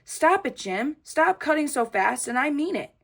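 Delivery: put-on frustrated girl yelling at a classmate. A narrator's reading. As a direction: make him stop cutting so fast. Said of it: "I got frustration inside of me".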